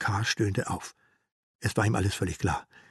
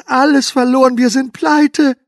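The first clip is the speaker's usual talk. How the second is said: very loud, much higher, slowing to pleite; hysterical wail; 13 semitones higher, 12 dB louder than usual. Acted. Herr K. screaming to his wife, very high and loud. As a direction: scream it out in full despair.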